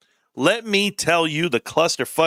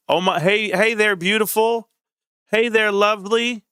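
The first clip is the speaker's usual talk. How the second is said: imitating a sweet endearment, pitched up; higher, mock-sweet hello; sweet Southern greeting; 5 semitones higher than usual. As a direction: lightly mimic a Southern man greeting a friend. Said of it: "they talk a little sweet".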